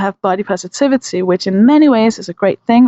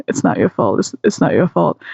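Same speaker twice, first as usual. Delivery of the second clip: soothing repetition; 7 semitones lower than usual. Retold or imitated. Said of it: "So I just started saying".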